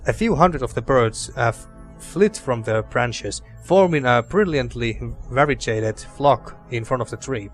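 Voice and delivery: calm storybook narration; story narration. Acted. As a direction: read it like a fantasy narrator. Reads game narration aloud.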